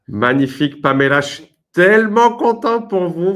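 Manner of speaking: bursting with joy, high and loud; excited praise. Real, not acted. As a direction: cheer her on with delight. Celebrating student's success.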